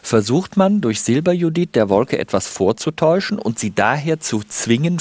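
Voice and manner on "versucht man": "versucht" repeated with raised pitch; emphatic, higher-pitched "versucht"; stress on versucht. Real, not acted. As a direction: hit "versucht" higher to underline it. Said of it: "ich betone aber versucht".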